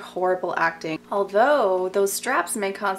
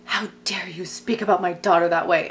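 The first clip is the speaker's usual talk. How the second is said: offended father. Retold or imitated. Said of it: "so offended".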